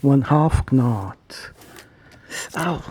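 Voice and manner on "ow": sudden yelp of pain; burnt fingertips. Real, not acted. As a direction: cry out as you burn a finger. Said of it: "I burned my finger".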